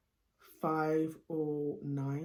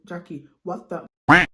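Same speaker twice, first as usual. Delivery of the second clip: louder, scolding herself mid-swear; exasperated outburst; 11 dB louder than usual. Retold or imitated. Reading back her mock essay, a loud exasperated outburst. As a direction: let it burst out at yourself. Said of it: "I was like".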